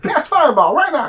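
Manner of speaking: high, loud squeaky demand; bossy tiny rat. Acted. Rat voice orders a fireball.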